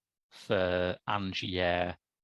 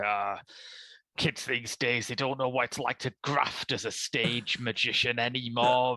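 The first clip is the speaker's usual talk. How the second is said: grumpy granddad; 2 semitones higher than usual. Retold or imitated. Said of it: "angry granddads in the Edwardian age going".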